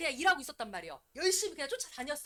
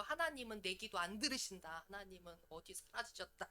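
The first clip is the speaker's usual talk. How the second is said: sulky complaint; 6 semitones lower, 12 dB quieter than usual. Retold or imitated. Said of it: "응답 안 왔다고 그래가지고".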